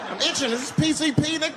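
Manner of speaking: high hysterical high-as-hell panic; high panicked freakout. Retold or imitated. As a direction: shriek that the spirits have you. Stoned narrator panics at chief.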